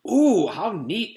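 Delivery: excited exclamation. A narrator's reading. A classmate admiring Calvin's tattoo plan, drawn-out and thrilled. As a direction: gush over the present like it's the best thing ever. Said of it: "exclaimed Mauricia".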